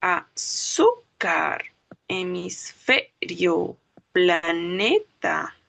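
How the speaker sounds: "Azúcar, hemisferio, planeta" slowly split, leaning on "zú", "fe", "ne"; penultimate-syllable stress. Shown as a demonstration. Teacher gives graves examples, slow split words with penultimate stress. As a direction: draw out each word, hitting the second-to-last syllable. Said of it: "llevan el golpe de voz".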